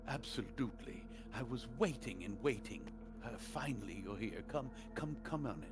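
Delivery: lightly voiced eager merchant; a touch of a fawning shopkeeper; mustache twirling villain.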